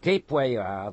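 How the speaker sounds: loud call to the rider; guard calls to the voice in the mist. A narrator's reading. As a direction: call across the fog firmly. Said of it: "called to the voice in the mist".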